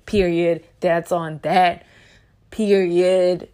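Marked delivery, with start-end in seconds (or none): 2.5-3.5 emphatic word into a loud laugh. Real, not acted. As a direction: say it firmly then burst out laughing. Emphatic sign-off, bursts laughing.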